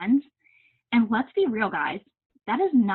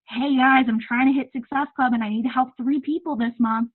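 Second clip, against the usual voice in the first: mock sales pitch; 3 semitones higher than usual. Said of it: "I don't hit it by saying".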